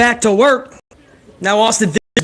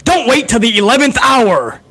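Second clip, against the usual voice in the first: lightly voiced wrestling hotline pitchman; a hint of swooping promo-announcer delivery; Mean Gene Okerlund; 2 semitones higher than usual. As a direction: sell it like a pay-per-view announcer. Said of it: "or Mean Gene Okerlund".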